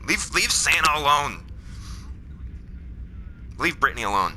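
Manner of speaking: comically indignant defense of Santa; mock protest. Talking back to a commercial about catching Santa Claus, mock protest. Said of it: "and I go".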